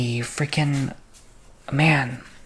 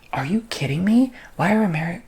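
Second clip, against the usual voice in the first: incredulous indignation; 4 semitones higher, 4 dB louder than usual. Retold or imitated. Indignant reaction to rude tourist.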